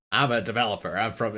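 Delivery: put-on New York accent. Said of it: "that's my New York accent".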